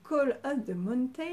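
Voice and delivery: English title in a French accent; attempted English accent from a French speaker. Real, not acted. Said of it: "mon accent anglais de dingue".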